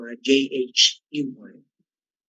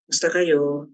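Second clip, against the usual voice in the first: mi pitch. Shown as a demonstration. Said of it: "nasa mi".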